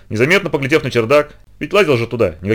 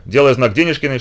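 plain reading voice

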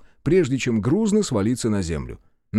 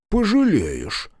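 slow, high, drawn-out threat; threatening; 9 semitones higher, much slower than usual. A narrator's reading. Policeman regaining nerve, warning his captor, threatening. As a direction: stretch the word into a menacing warning. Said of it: "угрожающим тоном заявил Чупахин".

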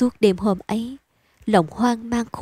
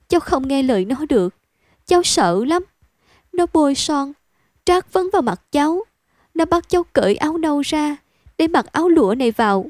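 put-on higher, rushed plea of a scared girl; a girl spilling out her terror, pitched up; frightened girl pleading; 5 semitones higher than usual. Girl tells the narrator of her abuse, higher and frightened. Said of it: "Nó điên cuồng".

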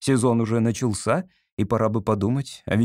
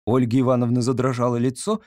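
plain reading voice

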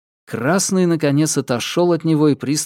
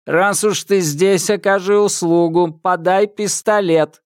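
commanding metallic voice; 6 semitones higher, 4 dB louder than usual. Acted. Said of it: "патрульный велел".

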